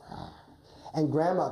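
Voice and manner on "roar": short playful roar; quick swipe of a roar; wolf claw roar. Shown as a demonstration. Coach showing the child wolf's claws, roaring. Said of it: "make your claws go".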